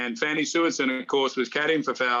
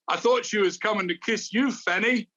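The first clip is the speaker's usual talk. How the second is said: lightly imitating a Scottish caddie's accent, a bit higher; a teasing Scottish caddie, lightly voiced; 6 semitones higher than usual. Caddie teases the other caddie, in a light Scottish accent. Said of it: "in his accent".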